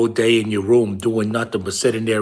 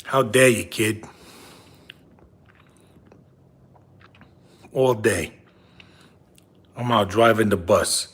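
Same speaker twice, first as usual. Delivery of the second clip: a lightly voiced lecturing father, louder; big-nosed dad voice; 4 dB louder, faster than usual. Father nagging his son about cranberry sauce, lightly voiced and louder. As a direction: scold the kid as his father, half joking. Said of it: "I got a big nose and I talk like this".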